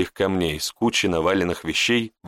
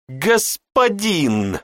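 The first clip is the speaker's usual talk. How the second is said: very slow, higher, insistent; pressing; 8 semitones higher, much slower than usual. Acted. Mage presses the apprentice to add the title. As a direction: drag it out to press him. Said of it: "надавил маг".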